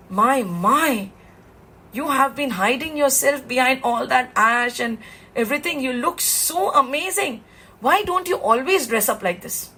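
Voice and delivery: mildly acted wonder, lifting on the praise; admiring amazement. Vishnu sees Shiva come out dressed up, lightly amazed. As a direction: marvel lightly at a friend's new look.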